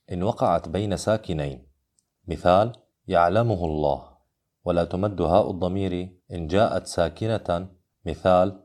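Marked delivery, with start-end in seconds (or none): 3.1-4.1 "يعلمه" with short hu linked into "الله"; unlengthened pronoun ha. Shown as a demonstration. Teacher models the no-madd rule, "يعلمه" short before "الله". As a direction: join "يعلمه الله" without stretching the hu.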